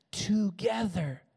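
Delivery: a slow breathy hush on one word; hushed whisper. Real, not acted. Pastor whispering to the congregation, a slow hushed word. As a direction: whisper it slowly, drawn out.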